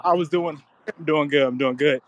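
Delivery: breathless while jogging; talking mid-run, short of breath. Real, not acted. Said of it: "So if I sound out of breath".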